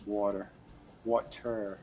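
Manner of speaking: muffled and quiet, cutting out; broken connection, swallowed words; underwater sound. Real, not acted. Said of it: "you sound like you're underwater".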